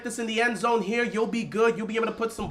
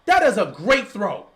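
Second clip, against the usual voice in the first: excited praise; 4 semitones higher, 4 dB louder than usual. Real, not acted. Raving about the replayed throw.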